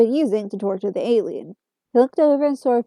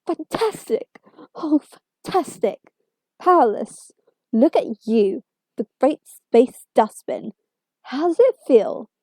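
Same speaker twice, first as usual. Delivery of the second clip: manic glee; 3 semitones higher, slower than usual. Acted. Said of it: "the doctor laughed manically".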